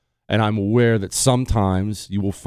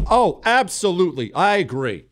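higher, confident "absolutely"; loud emphatic agreement; 7 semitones higher than usual. Shown as a demonstration. Husband showing the men how to answer his wife, higher and emphatic. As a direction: sell it with total confidence. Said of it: "Simply loudly and emphatically say".

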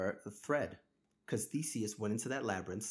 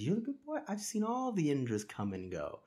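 pitched way up in scoffing disbelief; mock him with a sharply raised, incredulous question; 6 semitones higher than usual. God to the boastful Indra, a high mocking scoff. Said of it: "And then he says".

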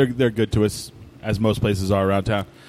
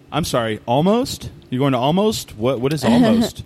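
baffled mishearing; 3 semitones higher than usual. Retold or imitated. Friends at barbecue mishearing Somos, rising mock bafflement. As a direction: play someone who cannot make sense of it.

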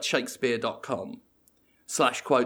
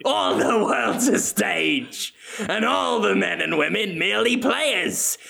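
hammy Shakespeare recital; 3 semitones higher than usual. Pretend. Willem reciting to the audience, slow mock-grand recital. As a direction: recite like a pompous stage actor. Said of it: "Willem repeats quote".

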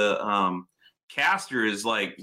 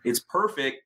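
smug mechanic; 4 semitones higher than usual. Retold or imitated. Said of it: "and it's like".

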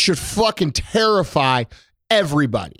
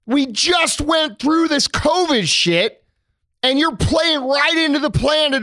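heated shout; 7 semitones higher than usual. Real, not acted. Ranting to his cohost about the riots, shouting slowly. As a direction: hammer it out in a rising shout.

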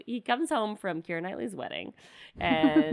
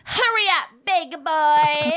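high, loud crying-tinged read; audition take; 8 semitones higher, 8 dB louder, much slower than usual. Acted. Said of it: "next slide, please".

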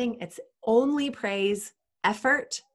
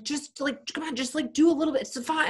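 coaxing mom; 7 semitones higher than usual. Retold or imitated. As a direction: gently nudge a stubborn kid to try. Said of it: "I was like".

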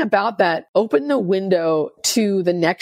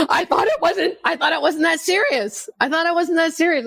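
mocking sponsor; 9 semitones higher than usual. Sponsor's mocking retort, voiced.

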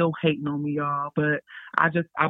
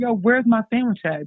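higher, indignant where's my sandwich; mock outraged freshman asking for food; indignant demand; 5 semitones higher than usual. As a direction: demand it like you've been robbed.

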